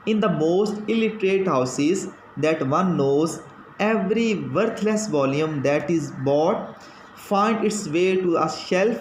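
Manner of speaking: slow, measured reading of a text; reading aloud. Acted. Teacher reading a passage to students, slow dictation-like reading. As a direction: read it out slowly, word by word.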